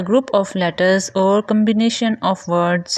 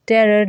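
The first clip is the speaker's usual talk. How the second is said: terror with the stress on "ter"; stress on first syllable. Shown as a demonstration. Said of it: "the first syllable ter is stressed".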